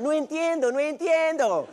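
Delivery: lightly imitating a ballad singer; a hint of dramatic singer; a singer. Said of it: "Como decía Ana Gabriel".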